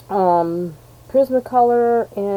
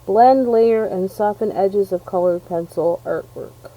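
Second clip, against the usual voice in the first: usual speaking voice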